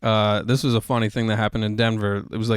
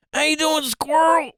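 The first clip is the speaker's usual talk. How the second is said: high strained voice, like someone is choking him; choked old uncle voice; 14 semitones higher than usual. Retold or imitated. Uncle greeting his nephew by his nickname, high choked voice. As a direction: squeeze it out high and tight. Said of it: "he used to call me Squirrel".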